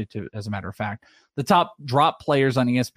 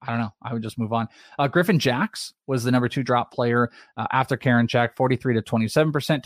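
ordinary talk, nothing marked

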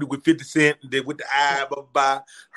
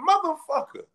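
mock exasperation; 14 semitones higher than usual. Retold exasperated reply.

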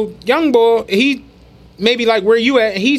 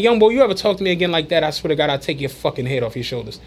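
low-key threat; 4 semitones lower, 4 dB quieter, faster than usual. Retold or imitated. Retold threat from the old head.

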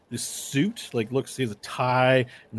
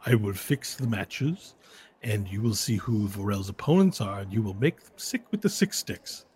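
scheming humanoid man; 3 semitones lower than usual. Acted. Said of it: "He says".

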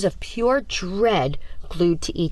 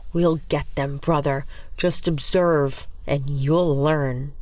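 sinister twin; 3 semitones lower, slower than usual. Acted. Sinister twin plotting revenge.

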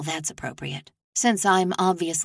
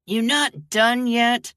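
impatient sister; 6 semitones higher, 5 dB louder, slower than usual. Acted. Sister pokes her head in.

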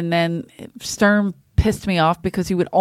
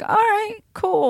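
fake enthusiasm; 12 semitones higher, slower than usual.

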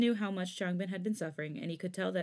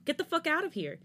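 yelled, pitched much higher; furious shout; 9 semitones higher than usual. Acted. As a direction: roar at him to leave. Changbin ordering Felix out.

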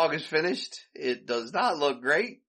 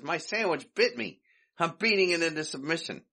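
Curly voice; 6 semitones higher than usual. Retold or imitated. Curly explaining to Mo.

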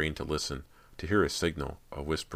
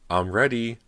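higher and louder, calling across the lawn; breathless call; 8 semitones higher, 7 dB louder than usual. A narrator's reading. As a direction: call out eagerly to the director. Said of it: "Cody called breathlessly to Bo".

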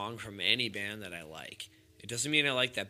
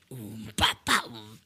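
beatbox sounds; 2 semitones lower than usual. Shown as a demonstration. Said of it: "That was fucking Lion King right there".

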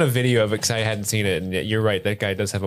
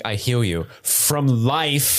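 solemn orc healer; much slower than usual. Acted. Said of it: "He's like".

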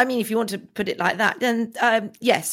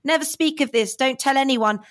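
lightly imitated stern parent, pitched up; a hint of a father drumming in advice. Father advising upset child to bottle it up, mildly stern imitation. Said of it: "like my father used to say to me".

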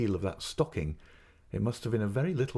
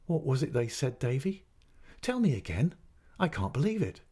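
laughing; 5 semitones higher than usual. Acted. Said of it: "laughing said".

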